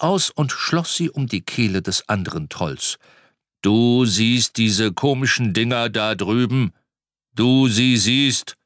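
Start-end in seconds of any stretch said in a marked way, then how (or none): 3.6-8.6 growling threat. Acted. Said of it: "grollte er".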